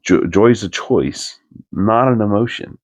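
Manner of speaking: slowly spelling out joy's a choice for someone who missed it; slow emphatic repeat. Retold or imitated. Buddy repeats his advice after the friend asks what, slow and emphatic.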